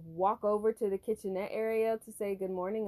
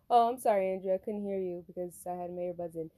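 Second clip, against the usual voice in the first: polite apology. Retold or imitated. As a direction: apologize smoothly, without the edge. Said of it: "but I said".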